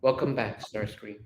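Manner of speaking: soft, affectionate welcome; tender welcome with a smile; smiling warmly. Acted. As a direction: let the name fade gently. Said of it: "smiling warmly".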